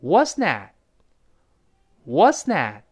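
WHAT'S THAT run together, last t held back; unreleased final t. Shown as a demonstration. Teacher modelling linked speech for students, final t dropped. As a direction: say "what's that" without releasing the final t. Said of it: "最后t失去爆破，所以读成".

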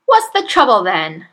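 glaring. A narrator's reading. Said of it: "glared at her and said".

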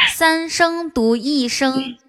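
drawn-out slow demo of the tones. Shown as a demonstration. Explaining the tones to a friend, slowly. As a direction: spell out each tone slowly. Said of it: "这样子".

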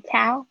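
cal ending on a clearly sounded L. Shown as a demonstration. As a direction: finish cal with the tongue up on the L. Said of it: "主要是L的声音".

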